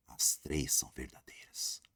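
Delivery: slow, breathy whisper of the answer. Shown as a demonstration. Teacher confiding the answer to students, whispered. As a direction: let it out like a secret to the class.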